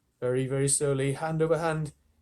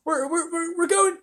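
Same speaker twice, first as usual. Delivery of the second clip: much higher, stuttering panic; over-excited stammer; 14 semitones higher, 4 dB louder than usual. A narrator's reading. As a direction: trip over the words in excitement. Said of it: "Got too excited".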